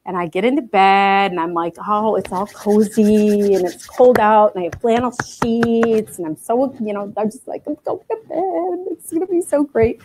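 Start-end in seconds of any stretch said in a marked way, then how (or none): 1.9-10.0 cozy contentment. Retold or imitated. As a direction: sink into the bed, savoring it. Retelling cozy bedtime thoughts.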